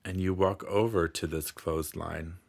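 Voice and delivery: unhurried meditation guide, long pauses between phrases; guided meditation. Acted. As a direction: gently lead the listener through calming imagery.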